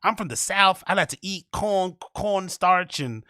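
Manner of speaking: mock the cliché comic voice; over-the-top parody of a stand-up's stereotype bit; hacky black voice. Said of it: "there's a hacky black voice".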